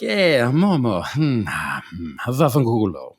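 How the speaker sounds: drawn-out dismissive Ferrari brush-off; mock dismissive. Ferrari answers Momo's idea, slow mock dismissal. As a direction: slowly humour them, then brush them off.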